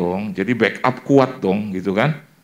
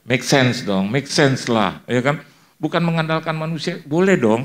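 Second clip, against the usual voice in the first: normal talking voice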